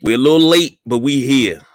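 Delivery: booming showman announcer intro; ringmaster. Pretend. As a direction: hype it up like a circus ringmaster. Ringmaster style show intro.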